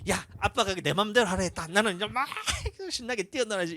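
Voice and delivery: mock kid thrilled at the permission; excited kid. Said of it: "애들이 어떻게 하냐면".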